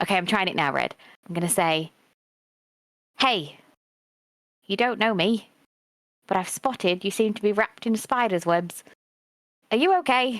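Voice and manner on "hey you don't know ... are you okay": whispered in a put-on voice, higher. Sending a whispered message to a creature wrapped in webs: whispering in character. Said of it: "So I'm gonna whisper a message".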